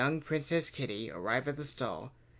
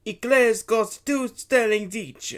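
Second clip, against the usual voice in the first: slow, loud, raised stallholder voice; gruff vendor; 8 semitones higher, 11 dB louder, slower than usual. A narrator's reading. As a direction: announce the price slowly and loudly. Luigi voiced quoting price.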